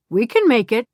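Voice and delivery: firm, pressed promise; mean every word; emphatic. Acted. Willie promising the couple they'll come, emphatic. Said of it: "Willie said emphatically".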